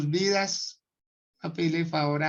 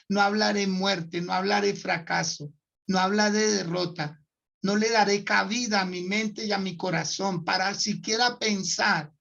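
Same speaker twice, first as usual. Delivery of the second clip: solemn preached confession; preaching declaration. Acted. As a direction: proclaim each line like a vow. Pastor declaring psalm-style confession. (declaración predicada solemne)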